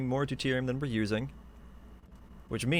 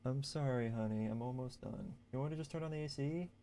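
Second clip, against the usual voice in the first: quiet aside; 2 semitones higher, 11 dB quieter than usual. Real, not acted. Apologizing to partner off-mic.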